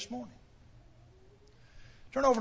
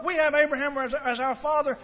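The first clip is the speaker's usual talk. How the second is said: "We have Abraham as, as our father" stressed, pitch a little raised; emphatic claim; 3 semitones higher than usual. Retold or imitated. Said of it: "they put a lot of emphasis on that".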